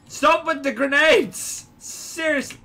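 high-pitched exasperated plea; squawked protest. Real, not acted. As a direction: complain loudly at careless teammates. Protesting grenades thrown in game.

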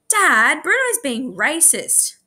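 high tattling call to a parent. A narrator's reading. Clancy telling Dad on Bruno, calling out. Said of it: "called Clancy".

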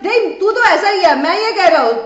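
mock quarrel shouting. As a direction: imitate someone shouting over the other in an argument. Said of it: "एक्स भी चिल्ला चिल्ला के बोल रहे हैं".

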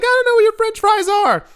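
very high, squealed mock woman's voice; mock a store worker snapping back in falsetto; flustered store worker. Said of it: "she's like".

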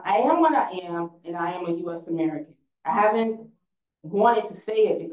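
proud, emphatic reading of a poem, each "I am what I am" stressed. Acted. Reading her grandmother's gift poem to the audience, proud recitation. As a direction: recite it like a declaration of identity. Reads Rosario Morales poem aloud.

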